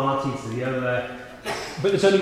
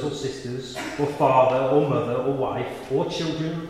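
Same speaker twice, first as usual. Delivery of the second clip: measured, solemn Bible reading; scripture reading. A narrator's reading. Reads the gospel aloud.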